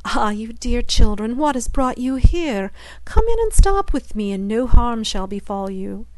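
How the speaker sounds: put-on an old witch coaxing, loud and falsely kind; sweet-talking witch. Witch luring two lost children into her house, falsely sweet. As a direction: lure them in, cooing and sly.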